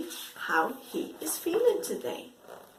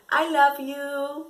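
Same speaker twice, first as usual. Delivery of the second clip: loving; 7 dB louder than usual. Shown as a demonstration. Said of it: "I think it's the love".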